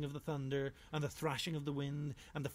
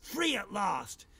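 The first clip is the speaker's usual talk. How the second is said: slow, much louder shout of freedom; escaped badger celebrating loudly; triumphant shout; 7 semitones higher, 7 dB louder, much slower than usual. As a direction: bellow it to the sky. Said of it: "said Harry the Badger".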